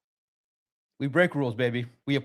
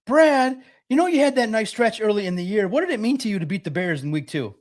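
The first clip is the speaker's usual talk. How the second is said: mock team reporter question; 6 semitones higher than usual. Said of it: "the next question will be from the team".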